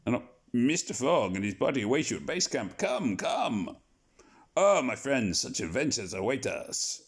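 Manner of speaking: hammed-up French accent for a cheerful Passepartout; a bad, jolly French accent, calling to friends; awful French accent. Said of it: "pardon my awful accent".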